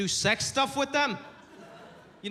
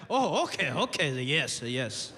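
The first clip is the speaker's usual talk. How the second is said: fading, lower nodding yeses; dad pretending to understand; 6 semitones lower, slower than usual. Dad faking understanding of the car lyric, trailing off lower. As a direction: agree politely without getting it. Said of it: "it's like".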